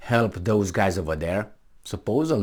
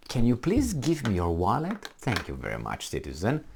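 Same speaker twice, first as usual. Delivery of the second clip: falsely sweet, much softer officialdom; mock politeness; 6 dB quieter than usual. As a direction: purr it like a polite thug. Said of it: "but they're nice".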